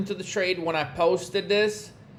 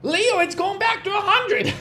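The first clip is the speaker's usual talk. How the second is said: a mock panicking trader, pitched higher as the candles go green; panicky trader; 4 semitones higher than usual. Coach mimicking traders who panic over a bounce, mock whiny. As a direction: mimic a client whining each time the price moves. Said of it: "I get the most shit from traders".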